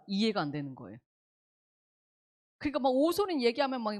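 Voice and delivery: usual speaking voice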